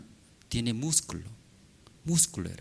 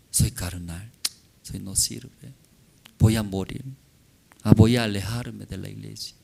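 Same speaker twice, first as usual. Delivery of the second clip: mock despair; 4 semitones lower, 5 dB quieter than usual. Discouraged believer's inner voice.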